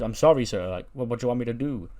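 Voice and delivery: lightly voiced waiter, deferring to an angry customer; apologetic waiter. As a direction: plead politely as a flustered waiter. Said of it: "He goes".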